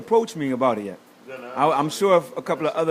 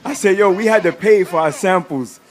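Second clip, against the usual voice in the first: louder, pressing protest; heated retort; 4 dB louder than usual. Retold or imitated. Arguing with the Puerto Rican kid, loud and pressing.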